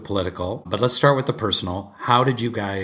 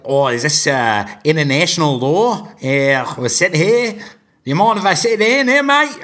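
mock Australian accent, much higher and louder; strong Australian accent; 6 semitones higher, 6 dB louder, slower than usual. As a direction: imitate her in a hammed-up, high Australian accent. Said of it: "she had a strong Australian accent".

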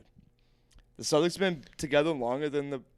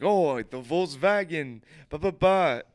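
would-be Russian that comes out German; mock Russian sliding into German; botched Russian accent; 2 semitones higher than usual. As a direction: lightly imitate a bad Russian accent. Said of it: "doing a Russian impression".

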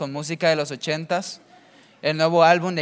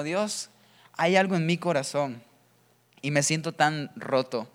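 quiet broken prayer; 3 semitones lower, 5 dB quieter than usual. Retold or imitated. Voiced prayer of a broken heart.

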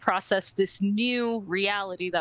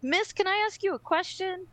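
put-on high, eager kid asking teacher; student voice; 9 semitones higher than usual. Teacher imitating a student asking her a question, high and eager. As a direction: pitch it up like a curious student. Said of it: "they would be like".

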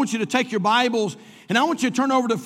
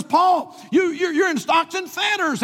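protesting; 6 semitones higher than usual. Acted. Imagined objector challenges Paul.

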